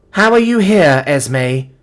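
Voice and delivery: high, loud burst of disbelief; startled demand. A narrator's reading. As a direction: demand an answer, pitched right up. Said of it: "I demand of the red-headed girl".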